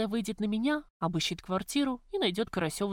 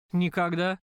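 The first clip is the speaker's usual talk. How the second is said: спокойная усмешка; 4 dB louder than usual. Acted. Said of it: "спокойно усмехнулся Карась".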